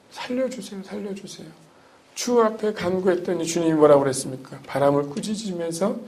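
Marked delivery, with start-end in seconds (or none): 0.1-1.5 mild mock plea. Disciples crying out in storm.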